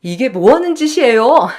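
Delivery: firm, indignant challenge near the speaker's own pitch; upset but restrained objection; angry protest. Acted. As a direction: confront an in-law with controlled anger. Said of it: "정말 화도 나고 손이 떨리더라고요".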